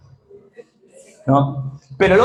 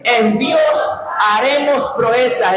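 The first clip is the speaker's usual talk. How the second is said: shouted declaration; much slower than usual. Shown as a demonstration. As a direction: call it out with faith. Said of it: "Dígalo fuerte".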